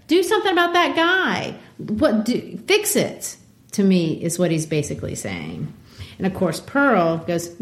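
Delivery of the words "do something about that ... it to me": high whining minister; paraphrased minister whining at Hester, much higher; whiny demand. Retold or imitated. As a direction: whine it like a spoiled man.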